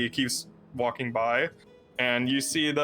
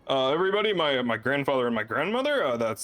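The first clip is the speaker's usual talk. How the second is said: a little higher, eager to impress; proud Siddiqui; 4 semitones higher than usual. Acted. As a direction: show off to your family like a proud kid. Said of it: "he walks in and says".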